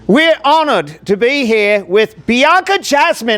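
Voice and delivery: high squealing excitement; excited. Acted. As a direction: shriek it with over-the-top glee. Host hyping the guest.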